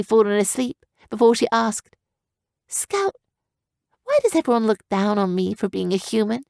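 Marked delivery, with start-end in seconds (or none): 2.7-6.4 put-on hurt young girl. Girl character voice.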